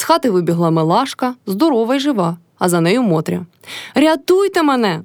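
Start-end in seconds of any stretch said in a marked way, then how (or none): 3.9-5.0 high, slow wail; wailing for help. A narrator's reading. Motria wailing for help in the yard. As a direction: cry out for rescue, drawn out. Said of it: "голосила Мотря".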